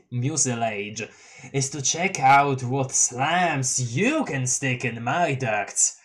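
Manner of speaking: lightly voiced hesitant boy; a hint of a shy stammering kid; Tavros voice. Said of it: "I forgot how I did Tavros's voice".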